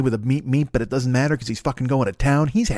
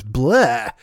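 disgusted blah; 3 semitones lower than usual. Real, not acted. Comic disgusted by the walrus image, grossed-out blurt.

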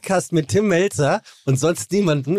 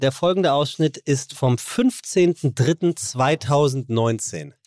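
Ansage; slower than usual. Acted. Ankündigung des alten Clips.

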